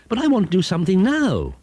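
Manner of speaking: high, whiny broom; a bored broom begging; impatient broom. Acted. Broomstick nags.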